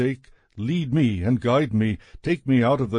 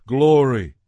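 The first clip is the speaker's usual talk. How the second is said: louder, ringing proclamation of Glory; proclaimed praise; 6 dB louder than usual. Acted. All in the temple cry out, louder proclaimed praise. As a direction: call it out as a shout of worship.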